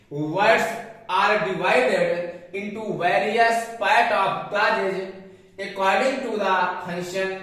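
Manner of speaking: very slow, word by word; slow dictation. Shown as a demonstration. Teacher dictating definition slowly to class. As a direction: read it out slowly for students to copy. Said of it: "reading English definition slowly".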